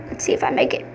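unvoiced tense whisper. Real, not acted. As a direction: whisper it under your breath. Tense moment before a jump.

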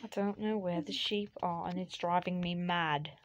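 amateur put-on British accent. Player hunting sheep for a bed, in mock British accent. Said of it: "have to do the British accent".

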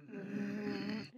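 imitating a stony, unwelcoming father; disapproving hum. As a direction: hum it quietly through pursed lips. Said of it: "lips pursed, like, staring at them".

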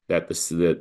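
ordinary talk, nothing marked

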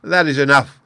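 high, loud angry outburst; angry cry. A narrator's reading. The Turk losing patience with the surgeon: angry cry. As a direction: cut him off in anger. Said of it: "the Turk cried angrily".

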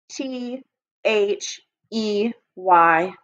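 H E Y spelled letter by letter, slowly; slow letter-by-letter spelling. Shown as a demonstration. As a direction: draw out each letter as you write. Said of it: "skywrite it".

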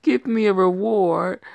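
cocky loud character voice; loud boastful demand. Acted. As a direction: crow for a reward.

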